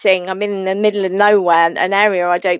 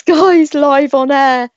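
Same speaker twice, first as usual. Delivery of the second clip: high, loud laugh breaking through the words; laughing in disbelief; 6 semitones higher, 5 dB louder, slower than usual. Real, not acted. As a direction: laugh it off, embarrassed on air. Dog interrupts live broadcast.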